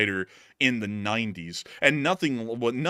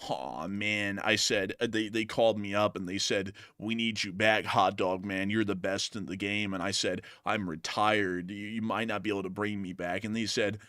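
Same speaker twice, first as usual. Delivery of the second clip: hammed-up gloomy groan; sad-sack fly. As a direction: moan like a defeated fly. Fly voice held.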